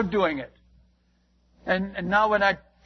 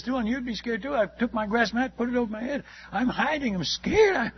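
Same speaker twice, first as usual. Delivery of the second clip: higher mock-frightened voice, climbing; imitated fear; 5 semitones higher than usual. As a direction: play the terrified man hiding under a mat. Frightened convert retold, voice rising.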